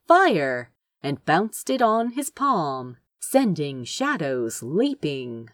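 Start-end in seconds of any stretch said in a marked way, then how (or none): none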